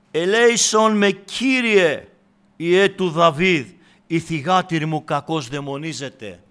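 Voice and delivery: preacher's mock cry for mercy; imitated loud supplication. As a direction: call out the plea, easing off toward the end. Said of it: "αυτή η γυναίκα κράζει".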